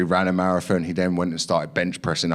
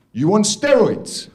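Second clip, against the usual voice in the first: much higher, slow, drawn-out blunt question; gym guy; 11 semitones higher, 4 dB louder, slower than usual. Retold or imitated. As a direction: let the question hang, mock-serious. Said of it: "gym guy asks bluntly".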